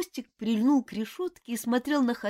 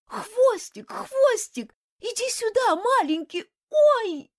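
high loud calling after her pet; 7 dB louder, slower than usual. A narrator's reading. Lady shouts for her frantic pet, loud high call.

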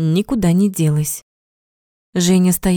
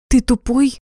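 higher, sharp angry question; flaring up; 5 semitones higher than usual. A narrator's reading. Zhenya suddenly flaring up at Sanya, angry. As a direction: snap at him, suddenly furious. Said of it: "Вдруг вспылила Женька".

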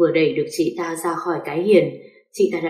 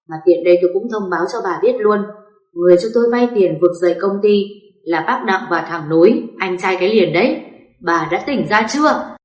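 angry shouting. Acted. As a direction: bark at your crying wife to shut up. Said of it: "quát lên".

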